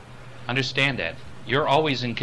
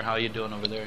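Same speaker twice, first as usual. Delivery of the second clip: talking off elsewhere; 6 dB quieter, faster than usual. Shown as a demonstration. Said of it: "talking off someplace else to someone else".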